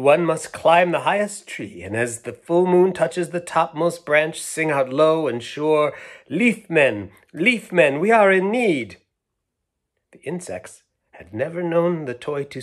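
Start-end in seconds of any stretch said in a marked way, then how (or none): 0.0-9.0 higher, louder, rising solemn call; mysterious toy. Acted. Toy explaining how to call the Leaf Men, solemn. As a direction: build to a calling chant. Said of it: "the toy explained".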